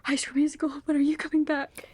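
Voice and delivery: mock plea to a childhood show; playful plea. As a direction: beg the show to come back. Calling out to old shows.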